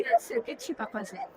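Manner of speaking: pergunta aguda e rápida, reencenada para criança; falando com criança. Retold or imitated. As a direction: puxe conversa com um pequeno, em tom agudinho. (vozinha aguda de falar com criança)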